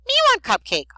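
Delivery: loud, high-pitched greedy monster; hammed-up cupcake-craving creature voice; Cookie Monster. A narrator's reading. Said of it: "That's Cookie Monster who talks like that".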